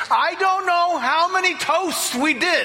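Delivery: high laughing disbelief. Real, not acted. Pastor laughing as he recalls the many toasts. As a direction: laugh as you admit it.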